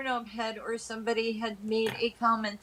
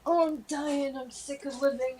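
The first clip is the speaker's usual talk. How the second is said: complaining grandfather; 4 semitones higher than usual. Retold or imitated. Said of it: "he'd be like".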